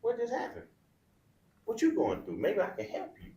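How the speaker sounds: lightly voiced worried father; caring dad. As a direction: coax his son to open up. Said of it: "I'll be like".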